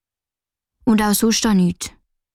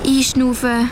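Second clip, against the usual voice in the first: slow breathing; 2 semitones higher than usual. Acted. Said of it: "ruhig zu schnaufen. Ganz langsam".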